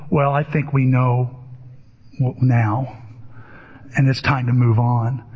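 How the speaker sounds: low, measured imitation, with pauses; deliberate and low, lightly imitating a therapist; Jack Nicholson. Therapist writes notes after the outburst, low imitated verdict. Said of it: "he goes".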